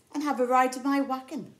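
high, loud bear invitation; bright hammed-up bear calling. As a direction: call out cheerfully as the bear.

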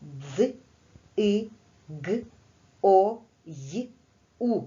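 "Дз, и, г, о, й, у" said as separate isolated sounds with pauses; sounds one by one. Shown as a demonstration. Teacher naming each sound for pupils, slow and separate. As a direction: sound out each phoneme of "дзигою" apart. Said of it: "назвіть окремо кожен звук".

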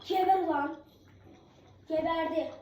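loud "die!" shout as the kill lands; loud gloating cries; triumphant yell. Real, not acted. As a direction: shout in real triumph over the enemy. Finishing off the enemy.

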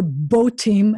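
"bo team" with "bo" in place of "ba"; "bo team", first vowel changed to o; short vowel version. Shown as a demonstration. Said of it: "that would be the short vowel version".

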